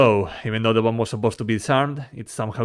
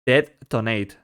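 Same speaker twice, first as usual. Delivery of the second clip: robot voice; slower than usual. Shown as a demonstration. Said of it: "Type detonate".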